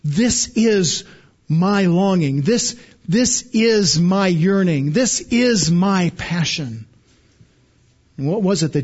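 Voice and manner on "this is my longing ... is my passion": slow, weighted "this is my", with a falling close on each phrase; emphatic declaration. Retold or imitated. Preacher voicing Jesus' longing for this Passover, slow and emphatic. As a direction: lean deliberately on "is" in "this is my". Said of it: "it's an emphatic way of saying".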